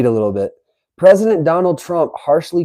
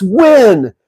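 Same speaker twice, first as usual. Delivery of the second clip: win. punched louder and higher as capitals; all caps shout; 7 semitones higher, 5 dB louder than usual. Acted. Reading Trump's post to chat, all-caps emphasis. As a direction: slam the word win. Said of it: "all caps".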